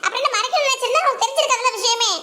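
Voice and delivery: exasperated protest. Acted. Child telling mother to stop digging at it, exasperated protest. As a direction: argue back, fed up with the nagging.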